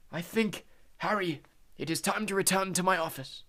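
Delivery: a hint of quiet old Dumbledore. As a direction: speak quietly in Harry's ear. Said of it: "said a quiet voice".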